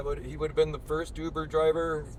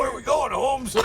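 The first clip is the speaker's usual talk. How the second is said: a hint of a laid-back stranger, raised; casual passenger; 9 semitones higher, 3 dB louder than usual. Homeless guy asking Pete where they are headed, lightly voiced. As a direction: toss it off like an oblivious passenger.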